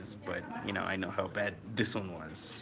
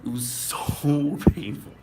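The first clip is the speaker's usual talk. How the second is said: laughing through it; 6 semitones higher, 9 dB louder, slower than usual. Real, not acted. Recalling pain, laughing.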